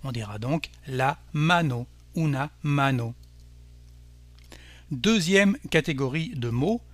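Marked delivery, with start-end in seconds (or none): 0.9-1.9 mano stressed on MA; Spanish mano with a light final "no"; stress on first syllable. Shown as a demonstration. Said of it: "on accentuera donc l'avant-dernière syllabe". 2.1-3.2 mano stressed on MA; Spanish mano, accented on its first syllable. Shown as a demonstration. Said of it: "on accentuera donc l'avant-dernière syllabe".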